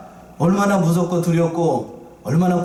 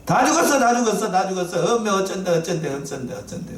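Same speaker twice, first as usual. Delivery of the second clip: 공황 연기; 3 semitones higher than usual. Acted. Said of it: "제가 지금 연기를 하고 있는데". (겁에 질려 높게 울부짖다 잦아드는 소리)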